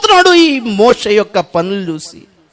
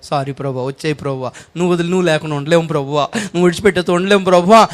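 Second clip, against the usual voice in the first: tearful pleading prayer; 5 semitones lower, much faster than usual. Retold or imitated. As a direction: beg forgiveness in a hushed, tearful rush. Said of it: "అలా ఏడుస్తాం".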